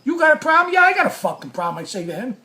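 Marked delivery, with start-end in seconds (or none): 0.0-0.7 loud, high-pitched mock challenge; challenging back. Cameraman calls the storyteller's bluff, challenging back. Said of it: "he's gonna call mine right back". 0.7-1.8 fast retold retort; bluffing comeback. Storyteller answers the cameraman's challenge, bluffing comeback. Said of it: "I'm calling his bluff".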